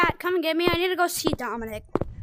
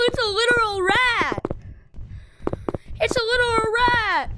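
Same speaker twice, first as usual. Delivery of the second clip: higher-pitched outraged disbelief; incredulous exclamation; 5 semitones higher than usual. Real, not acted. Gamer reacting to a rat enemy, incredulous cry.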